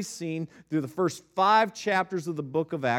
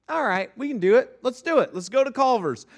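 game dad; 5 semitones higher, 3 dB louder than usual. Retold or imitated. Dad gamely agreeing in retold story.

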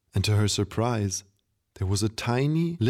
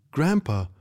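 put-on surprised girl; 5 semitones higher than usual. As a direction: gasp out his name in disbelief. Girl startled grandpa speaks.

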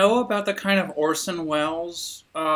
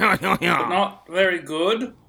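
slow, laughing British voice; posh British accent; much slower than usual. Pretend. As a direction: play it posh and amused. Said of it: "Have we crossed the Atlantic?".

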